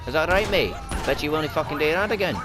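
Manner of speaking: acted indignant challenge; confrontational. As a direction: dare them to try it. Acts out confronting someone.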